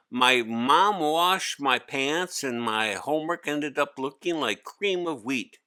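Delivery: put-on a kid groaning under a heavy load; young boy Hari. Hari making excuses.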